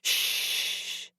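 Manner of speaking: unvoiced soothing shh; whispered hush. A narrator's reading. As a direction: hush her gently. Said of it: "my savior whispered".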